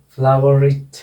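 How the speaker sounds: फ्लावर इट with the final R sounded, linked into इट; फ्लावर इट as one phrase, R carried onto the vowel; linking R sounded. Shown as a demonstration. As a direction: run फ्लावर इट together through a clear R. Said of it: "रे का उच्चारण होगा".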